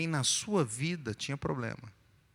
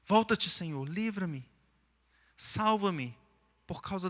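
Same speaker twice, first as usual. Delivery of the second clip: pleading psalm reading; 4 semitones higher than usual. Acted. Reads the psalm as a plea.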